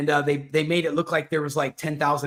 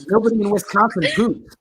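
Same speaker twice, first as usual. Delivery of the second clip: loud, high put-on Wisconsin accent; mock Wisconsin accent; 6 semitones higher, 6 dB louder than usual. Joking to co-hosts about Wisconsin, exaggerated Wisconsin accent. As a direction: belt it out in a jokey Wisconsin accent. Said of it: "a Wisconsin accent".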